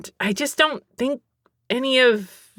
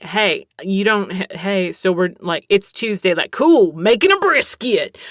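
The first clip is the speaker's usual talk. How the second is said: put-on Texan accent; 4 dB louder than usual. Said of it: "obsessed with this accent".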